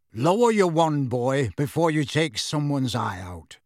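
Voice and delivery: put-on gruff old auror, growling low. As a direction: growl it like a wary old soldier. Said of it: "a low, growling voice".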